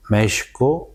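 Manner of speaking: México said as Meshkoo, the final o drawn out; slow Nahuatl Méshico with a long o; Nahuatl pronunciation. Shown as a demonstration. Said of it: "para decir como chico, o México". (México pronunciado a la náhuatl, con la o alargada)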